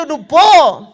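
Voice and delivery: loud, harsh order; angry son. Retold or imitated. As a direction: throw her out with the words. Son throwing mother out.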